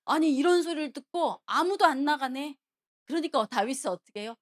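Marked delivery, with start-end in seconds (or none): 0.0-2.6 higher, louder, mildly outraged; acted indignation. Young David hearing the taunts nobody answers, indignant. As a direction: act out a boy's angry disbelief. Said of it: "다윗은 막 화가 나는 거예요".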